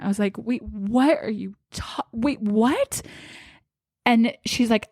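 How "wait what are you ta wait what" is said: slow, faltering retold disbelief; mildly acted bewilderment, rising at the end; losing it. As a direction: break off mid-question, stunned. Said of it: "And I start losing it".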